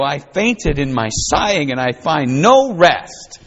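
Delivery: measured scripture reading from the pulpit. Acted. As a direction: read the verses with weight and reverence. Reads Jeremiah 45 aloud.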